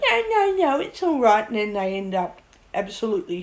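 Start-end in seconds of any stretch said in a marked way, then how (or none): 0.1-1.5 high, brushing-off no no no; breezy mock denial; mock dismissive. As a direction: wave the warning away. Mocking people who dismiss warnings.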